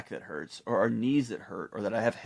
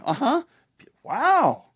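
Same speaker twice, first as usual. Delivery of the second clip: high mock absent-minded uh-huh; distracted dad; 6 dB louder, slower than usual. Dad on his phone answering daughter, mock absent. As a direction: fake interest while scrolling. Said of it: "I'm going".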